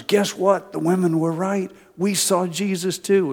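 high, loud burst of joyful news; excited news. Retold or imitated. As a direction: blurt out the good news breathlessly.

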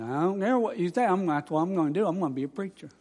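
lightly imitated speech impediment; a hint of thick-tongued, stubborn student; Dutchy voice. Student answering those who laughed, mild Dutchy voice. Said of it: "his Dutchy voice".

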